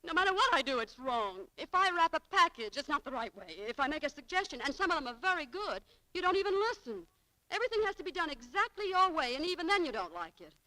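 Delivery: indignant. Acted. Clerk fights back.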